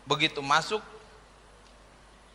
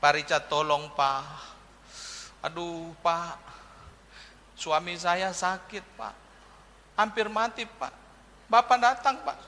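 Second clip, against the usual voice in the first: pleading wife; 7 dB quieter than usual. Retold or imitated. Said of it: "panggil saya datang".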